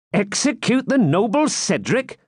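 high, shocked jester cry; stagey fake archaic declaiming. A narrator's reading. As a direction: gasp it out in disbelief. Wamba exclaims in alarm.

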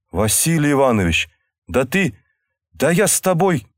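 lost for words, rising; overwhelmed. A narrator's reading. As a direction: stammer it out, overcome. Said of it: "не найдя нужных слов".

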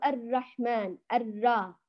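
الرحمن slow, with a wrongly held double r; faulty ra. Shown as a demonstration. Teacher shows students another mistake, faulty ra. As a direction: linger on the r of الرحمن and الرا. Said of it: "كمان هذا خطأ".

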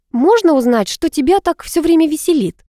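mildly seething narrated query; through gritted teeth. A narrator's reading. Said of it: "процедила я сквозь зубы".

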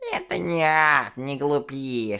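медленно, чуждо, как помехи; прошепчи шипяще; шёпот статики. Acted. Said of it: "шептала статика". (шёпот помех)

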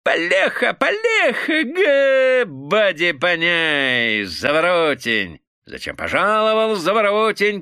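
shouting through laughter. A narrator's reading. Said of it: "кричал он сквозь смех".

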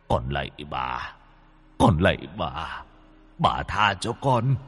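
whimpering, begging for mercy; sobbing plea. Acted. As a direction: grovel and whimper before her. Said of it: "mếu máo". (van xin mếu máo)

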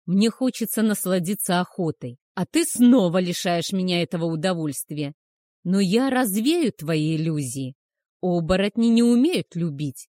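smirking werewolf. Acted. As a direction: loom over her, mocking and cold. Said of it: "усмехнулся он".

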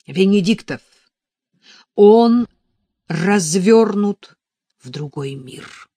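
loud, emphatic, spaced-out exclamation; urgent announcement. A narrator's reading. Warning that he faces another world, loud and urgent. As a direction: call it out forcefully, word by word.

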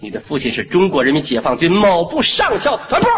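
booming boast of his army rank; proud shout. Pretend. Father boasting his rank loudly.

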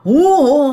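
loud mock sob; imitated crying. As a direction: wail a storytelling "hoo hoo" cry. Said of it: "cái xong cái mẹ khóc". (giả tiếng khóc hu hu)

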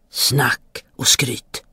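slow, lightly voiced scoff; scornful spirit. A narrator's reading. Giant spirit brushes off the boy's boast, slow mild scorn. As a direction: dismiss it slowly, with a touch of scorn.

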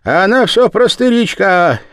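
put-on loud, jeering elderly peasant woman; mocking old woman. A narrator's reading. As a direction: ridicule her old friend's wish for a husband. Darya mocks Sima, much higher.

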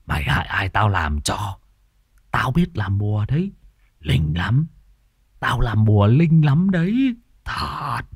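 lightly voiced crazed old sorcerer, boasting; a hint of a deranged beggar; mad sorcerer. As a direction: brag like a half-mad charm maker.

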